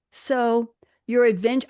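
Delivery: put-on half-hearted British accent, drawn out; attempted Maggie Smith accent. Host reading Granny Wendy's movie line, half-hearted British accent. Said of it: "I can't do a Maggie Smith accent".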